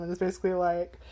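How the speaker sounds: ordinary talk, nothing marked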